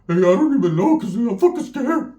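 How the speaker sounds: hammed-up nervous whisper-turned-yelp; mock scared. Narrator scared of pit bulls, mock fearful.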